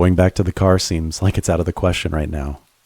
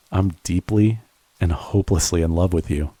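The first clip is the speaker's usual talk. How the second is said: tender confession; 3 dB quieter than usual. Acted.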